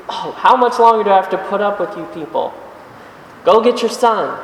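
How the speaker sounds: mildly fed-up teacher, pushed too far; crotchety Jesus. Retold or imitated. Jesus fed up with people always asking, a touch crotchety. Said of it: "getting a little crotchety at this".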